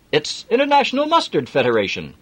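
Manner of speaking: hearty Yorkshire driver; broad Yorkshire accent. Acted. Jim offering Adam a lift, broad Yorkshire accent. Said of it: "broad Yorkshire accent".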